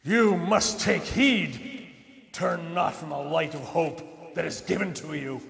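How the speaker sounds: Grim Reaper voice. Acted. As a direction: intone it like a ghostly messenger. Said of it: "knock off the Grim Reaper voice".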